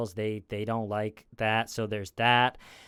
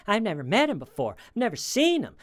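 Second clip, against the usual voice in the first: much higher and louder, fast and flustered; imitating a suspect's rattled denial; voice shooting up; 9 semitones higher, 5 dB louder, faster than usual. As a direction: jump way up in pitch like a nervous suspect. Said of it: "The voice goes up".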